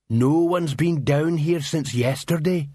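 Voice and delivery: slow, simple troll voice; a big dim troll, slow and heavy. Acted.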